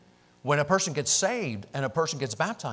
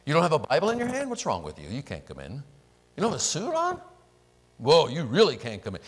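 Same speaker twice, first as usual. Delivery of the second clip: mock snooty doorkeeper. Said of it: "stand at the door and say".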